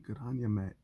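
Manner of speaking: a light imitation of an Australian twang; hint of an Aussie mate; mock Aussie accent. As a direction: tease the friend's Australian accent. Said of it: "his accent sounds, sounds Irish".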